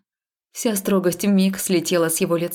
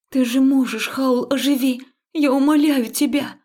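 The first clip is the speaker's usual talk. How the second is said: desperate pleading; 6 semitones higher than usual. Acted. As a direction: beg him, voice rising. Heroine begs Haul desperately. (отчаянная мольба, громче и выше)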